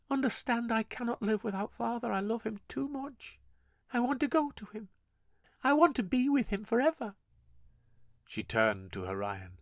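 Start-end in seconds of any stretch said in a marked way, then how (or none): 0.1-7.1 put-on higher girl's voice, quick and pleading; a lightly voiced grieving girl. Gale telling grandmother she must join father, lightly voiced girl.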